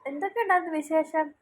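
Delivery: put-on sing-song questions to a babbling baby; baby talk. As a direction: coo along as if following a baby's story.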